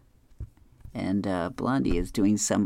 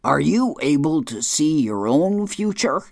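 hushed curious question; 4 semitones higher, 4 dB louder, slower than usual. Retold or imitated. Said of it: "Hagar says".

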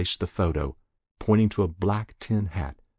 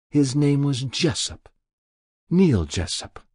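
put-on higher, older woman's confessing voice; a guilty old woman pleading with the inspector; elderly woman voiced higher, pained confession; Muriel's voice; 6 semitones higher than usual. Muriel tells the boy's story.

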